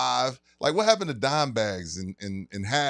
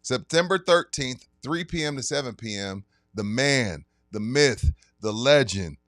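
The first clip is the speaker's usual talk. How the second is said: sponsor ad read. Acted. Announcing the liquor store signing to listeners, hyped ad read. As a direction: pitch the event like a radio spot.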